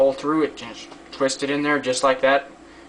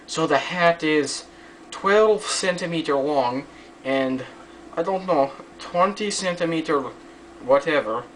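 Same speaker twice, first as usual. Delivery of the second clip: higher, slow hammed-up Russian accent; crappy Russian accent; 5 semitones higher than usual. Giving hat measurements to viewers, in a crappy mock Russian accent. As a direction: put on a bad mock Russian accent for a laugh. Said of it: "that's my crappy Russian accent".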